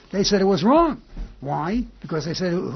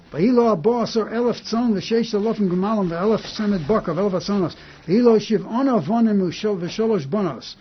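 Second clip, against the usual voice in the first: higher, steady verse recitation; scripture reading; 4 semitones higher than usual. Acted. Rabbi reading Hebrew verses to his class, recitation. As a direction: read the verses out, pitch lifted.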